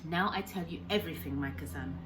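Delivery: lightly voiced old fisherman, eager and kind; old Japanese man, broken English. Old man cheerfully explaining fishing to the boy, lightly accented. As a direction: speak as a proud old man telling the boy his plans. Kensuke begins his story.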